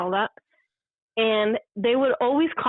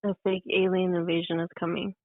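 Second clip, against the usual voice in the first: too fast; 3 dB quieter than usual. Shown as a demonstration. Guest tries the host's line on the spot, too fast. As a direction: run straight through without pauses. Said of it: "you said it too fast".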